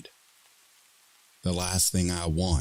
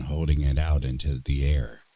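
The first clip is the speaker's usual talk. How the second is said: ordinary talk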